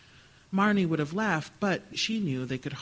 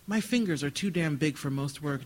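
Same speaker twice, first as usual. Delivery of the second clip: put-on lightly slurred drunk words; drunken slurring. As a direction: slur it like a tipsy man. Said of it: "Dean slurred".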